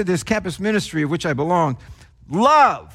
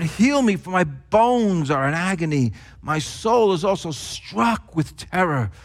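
acted psalm of distress, slowly building; anguished plea; 2 semitones lower than usual. Psalm writer crying out to God in trauma, restrained anguish. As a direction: plead to God in mild anguish, breaking off between phrases. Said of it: "hear the spiritual and emotional trauma".

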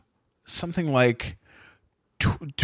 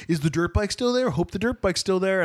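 higher-pitched imitation of hopeful callers; voicemail callers; 6 semitones higher than usual. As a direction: mimic people leaving repeated voicemails. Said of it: "it's all people going".

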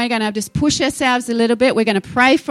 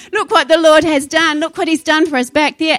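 "Look what the Lord has done" said higher and louder with a laugh; excited praise; 4 semitones higher, 4 dB louder than usual. Shown as a demonstration. Preacher acting out the celebrating believer, louder with a laugh. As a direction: throw it out joyfully, standing up. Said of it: "I have to stand up".

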